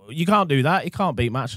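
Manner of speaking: high, indignant vinyl snob; outraged purist. Retold or imitated. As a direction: protest like a horrified purist. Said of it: "Vinyl heads would freak out and be like".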